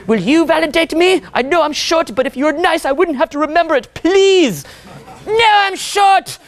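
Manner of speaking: high, pleading whine rising to a shout; whiny needy guy. Retold or imitated. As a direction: beg for approval like a needy man.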